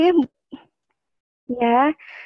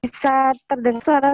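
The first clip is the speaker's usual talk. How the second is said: choppy audio breaking up; glitchy call, words dropping out; robot voice; faster than usual. Real, not acted. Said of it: "suaranya putus-putus".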